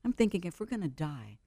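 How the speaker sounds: put-on soft to her child. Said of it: "I say".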